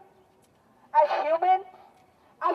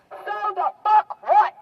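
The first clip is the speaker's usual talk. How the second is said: indignant; 4 semitones higher than usual. Real, not acted. Angry retort to excuses.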